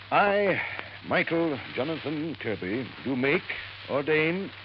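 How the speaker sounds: measured, solemn reading with pauses; formal will reading. Acted. Lawyer reading the will to waiting heirs, formally. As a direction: read out a legal document, phrase by phrase.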